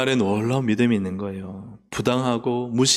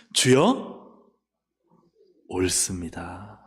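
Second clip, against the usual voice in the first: humble reply; 7 semitones lower, 3 dB quieter, much slower than usual. Acted. Woman's humble reply quoted.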